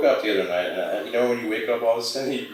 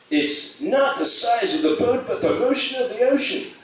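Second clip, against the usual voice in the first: mock adage; 12 semitones higher than usual. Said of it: "you know how they have that adage".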